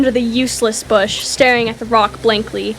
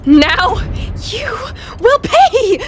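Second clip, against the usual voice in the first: furious threat; 10 semitones higher, much slower than usual. Acted. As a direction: spit out the threat with rage. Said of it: "she huffed".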